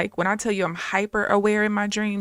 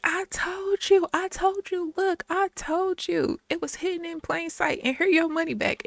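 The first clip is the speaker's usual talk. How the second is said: retold high voice; 10 semitones higher than usual. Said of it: "was like".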